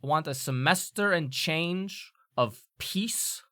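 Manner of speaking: slow, measured demand for order; lightly voiced stern academic, stressing each phrase; stern professor.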